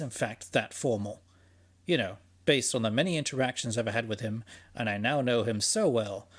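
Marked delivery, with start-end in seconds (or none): 1.9-6.3 sarcastic. Real, not acted. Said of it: "I'm being sarcastic".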